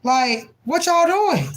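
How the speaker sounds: playing officials who can't believe the court's disorder; exasperated officials. Officials scolding the court, incredulous and exasperated. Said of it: "They're like".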